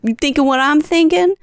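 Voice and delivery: lightly voiced scheming kid; kid's scheming voice. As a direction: sell the idea like a little schemer. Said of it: "he goes".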